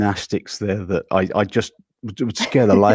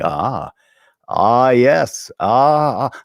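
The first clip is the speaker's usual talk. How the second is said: Jeff Goldblum; 2 semitones higher, 5 dB louder, much slower than usual. Retold or imitated. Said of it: "I started doing Jeff Goldblum".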